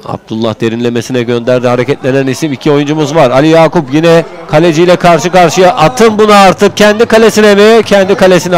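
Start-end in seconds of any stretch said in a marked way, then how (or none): 3.3-8.6 higher and louder, pleading for the shot; urgent excitement. Real, not acted. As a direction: beg him to shoot. One on one, urging shot.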